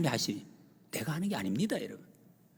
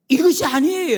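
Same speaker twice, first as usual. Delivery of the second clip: high, loud cry; preaching shout; 12 semitones higher, 11 dB louder than usual. Real, not acted. Preacher correcting the church, high loud shout. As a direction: shout it to the back row.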